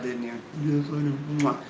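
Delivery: usual speaking voice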